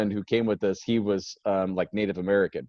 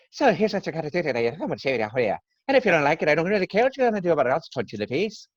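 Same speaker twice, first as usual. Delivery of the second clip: put-on Brad Pitt's Irish accent; 7 semitones higher, much faster than usual. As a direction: rattle off a high-pitched, barely intelligible Irish threat. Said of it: "my Irish accent was just me copying Brad Pitt".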